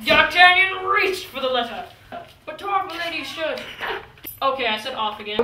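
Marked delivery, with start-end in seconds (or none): 0.1-3.6 louder retake. Shown as a demonstration. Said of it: "God, say it!".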